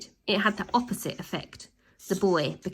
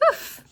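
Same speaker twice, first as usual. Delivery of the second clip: oof; 11 dB quieter than usual. Acted. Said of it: "she cried".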